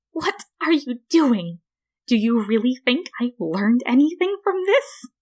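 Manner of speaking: high sneering flower voice; Flowey's voice. A narrator's reading. Beaten flower taunts the human, high and sneering.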